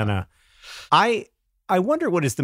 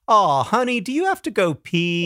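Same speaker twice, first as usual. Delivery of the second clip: mother's loud coo; 5 semitones higher than usual. Retold or imitated. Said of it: "she says loudly".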